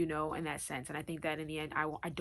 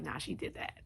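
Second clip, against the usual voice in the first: whispered aside; 5 dB quieter than usual. Retold or imitated. Admiring someone, quoted reaction.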